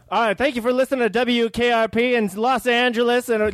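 radio DJ voice. Acted. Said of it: "Just do it again".

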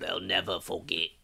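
put-on low, soft British old man; lightly put-on British accent. Co-host playing a Brit of the future, dubious British accent. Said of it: "that's your British accent".

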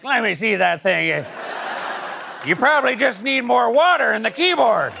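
put-on clueless old grandpa. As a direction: play a confused grandpa. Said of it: "your grandpa was like".

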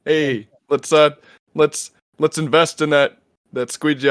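lightly voiced, goofy owner impression; halting mock pitch in a put-on voice; Mark Cuban. Owner pitching a silly investment, lightly hammed-up impression. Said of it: "that's my Mark Cuban impression".

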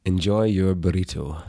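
hushed Scottish sign-off; Scottish accent. Shown as a demonstration. Guest signing off the podcast on request, hushed Scottish accent. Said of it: "Would you please tell people Scottishly".

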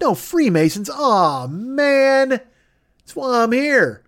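high, excited mock protest; mock outraged fan. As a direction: whine like a let-down superfan. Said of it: "And I'm like".

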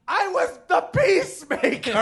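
high, loud laughing scream of outrage; screaming indignantly through laughter; retold scream. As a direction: yell it at the guy in the upper deck. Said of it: "I screamed".

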